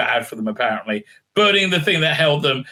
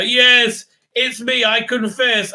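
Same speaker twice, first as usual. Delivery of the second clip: mock confession; 8 semitones higher, 3 dB louder, slower than usual. Woman confesses, voiced dramatically.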